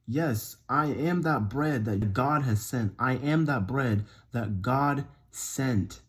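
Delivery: slow, deliberate quote; imagined Jesus reply. Retold or imitated. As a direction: spell it out slowly, as Jesus might. Imagines Jesus answering, slowly.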